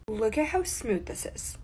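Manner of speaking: soft breathy whisper to camera; hushed admiring whisper. Real, not acted. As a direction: whisper it like a secret about the makeup. Showing off smooth makeup finish.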